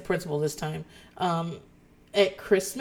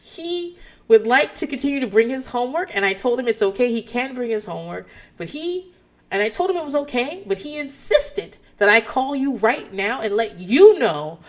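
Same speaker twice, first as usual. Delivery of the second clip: deliberate, slightly raised teacher voice; talking around someone; 5 semitones higher, 5 dB louder than usual. Retold or imitated. Teacher relaying an insistent student's message, pointed retold delivery. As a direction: spell it out for the child overhearing. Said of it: "she is talking around someone".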